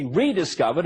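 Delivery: "rediscovered" with emphasis on the first syllable "re"; stress on RE. Real, not acted. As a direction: lean on the "re" that opens "rediscovered". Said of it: "I emphasize the re".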